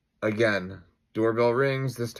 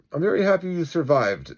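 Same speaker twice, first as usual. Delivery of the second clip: protagonist vigilante; 7 semitones higher, 6 dB louder than usual. Acted. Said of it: "says the protagonist, American vigilante".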